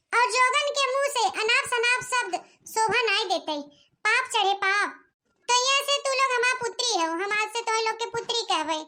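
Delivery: a hint of a solemn ascetic preaching; lightly voiced yogini. Yogini sister explains her new life to the girls, lightly solemn. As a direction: speak low and pious.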